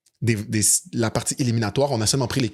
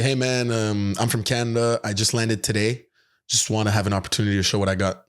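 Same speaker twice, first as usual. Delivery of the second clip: put-on North American accent. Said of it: "qu'on entend mon accent, euh, nord-américain".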